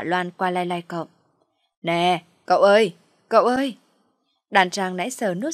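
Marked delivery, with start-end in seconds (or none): 1.8-3.8 put-on louder call to wake a drunk man; mother shaking the young man awake, calling out. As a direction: rouse him, voice rising on the second call. Mother shakes the drunk guest.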